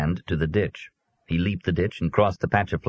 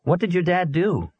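put-on high, curious boy; blunt kid's question, pitched up; boy asking the grieving girl; young boy voice; 12 semitones higher than usual. A narrator's reading. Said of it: "David asked the oldest girl".

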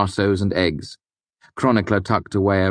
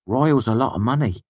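sly; 7 semitones higher than usual. A narrator's reading. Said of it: "flashing a sly grin".

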